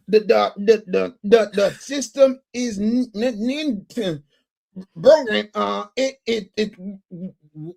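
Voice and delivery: stammers and restarts on every word; lightly voiced stammering read; stumbling bad reader. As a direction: imitate a host choking on his script. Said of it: "That's how he sounded".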